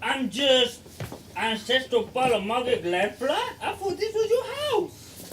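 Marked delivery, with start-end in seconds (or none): 1.4-5.3 laughing. Acted. Laughing mock echo of brother.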